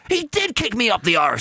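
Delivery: lightly sung late realisation; dawning bishop. Retold or imitated. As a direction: let it finally land, half sung. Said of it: "And then he goes".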